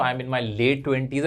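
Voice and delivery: "I am in my late twenties" spoken very slowly and deliberately; slow careful model. Shown as a demonstration. Teacher models a phrase for students in their late twenties. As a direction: lay out each word slowly. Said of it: "अगर इससे ज्यादा की उम्र है तो".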